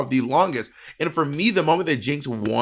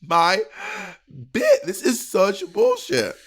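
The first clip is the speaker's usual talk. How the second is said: retold outrage; 4 semitones higher than usual. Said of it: "I was like".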